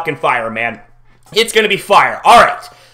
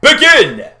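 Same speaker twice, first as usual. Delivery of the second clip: hype call; 5 semitones higher than usual. Acted. Announcing the episode start.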